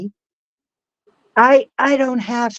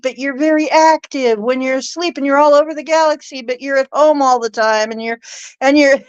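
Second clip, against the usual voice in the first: 1 quoting the reader; 5 semitones higher than usual. Retold or imitated. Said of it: "she started saying".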